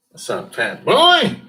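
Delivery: loud, slow teasing call; calling out to someone outside; mock taunt. Teasing a passerby outside the window, loud slow call.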